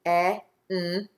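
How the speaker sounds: "E-N-T" as three separate phonemes; short e, held n, crisp t for "E-N-T"; tapping the sounds. Shown as a demonstration. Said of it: "Now tap the syllables in the second syllable".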